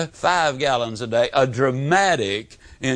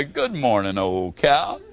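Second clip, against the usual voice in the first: gentle, low-voiced hello; affectionate greeting to a cow; 4 semitones lower than usual. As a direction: greet an old cow tenderly, dropping the pitch. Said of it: "hug the old cow and say".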